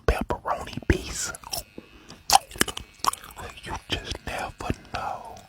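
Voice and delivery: whispering with a mouthful of seeds; cracking sunflower seeds. Real, not acted. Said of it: "I got some sunflower seeds in my mouth".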